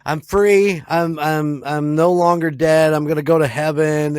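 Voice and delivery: high, loud, gleeful cry of freedom; mock joyful ghost. New ghost thinking it is free, loud high mock joy. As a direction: celebrate like a freed soul. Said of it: "It's like".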